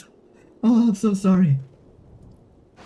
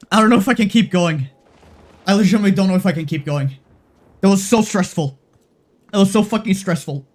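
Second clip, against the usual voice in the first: louder, higher, rushed and strained; overwhelmed; 4 semitones higher, 5 dB louder than usual. Real, not acted. Streamer telling chat how stressful the run was, real agitation. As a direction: spill out the stress.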